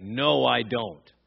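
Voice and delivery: slow "No, I don't" with weight on NO; drawn-out, insistent "No, I don't". Retold or imitated. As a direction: stretch out NO and DON'T firmly. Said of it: "it becomes even more emphatic".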